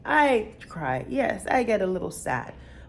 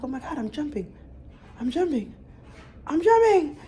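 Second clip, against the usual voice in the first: excited; 8 semitones higher, 4 dB louder than usual. Retold or imitated. A mom reliving her first jump rope with growing joy. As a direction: let the joy grow with each repeat. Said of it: "And I'm like".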